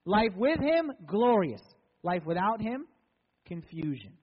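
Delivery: a preacher's call and response of life with and without Him; preaching contrast. Acted. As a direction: swing each pair from bright to dark.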